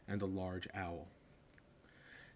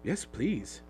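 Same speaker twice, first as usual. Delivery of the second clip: panting; 3 semitones higher, 4 dB louder than usual. Acted. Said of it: "Harry panted".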